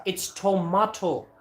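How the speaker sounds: tomato slowed as "toh-MAH-toh"; correcting tomato. Shown as a demonstration. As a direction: spell tomato out slowly for him. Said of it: "you're saying it wrong".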